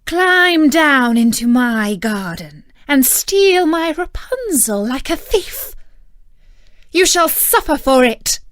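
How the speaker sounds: angry enchantress. A narrator's reading. Enchantress condemning the man who stole Rapunzel, loud and angry. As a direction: scold him like a thief caught red-handed. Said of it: "said she with an angry look".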